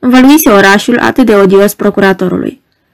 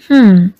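arrogant hum. Acted.

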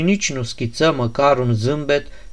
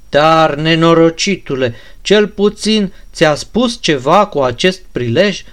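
impatient anger; 3 semitones higher than usual. Acted. Ganea demanding the prince speak up, angry and impatient. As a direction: urge him on, out of patience.

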